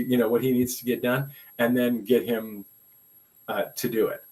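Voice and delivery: lightly voiced East Texas superintendent laying down the law; East Texas accent. Retelling the superintendent's warning to him, a mild East Texas accent. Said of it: "so hear it in her accent".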